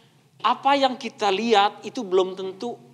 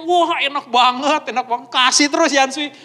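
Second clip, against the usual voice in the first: mild put-on gushing praise; feigned enthusiasm; 4 semitones higher, 4 dB louder than usual. Speaker saying "enak" about hated Yansui, feigned enthusiasm. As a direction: pretend to love the dish. Imagined false praise of disliked food.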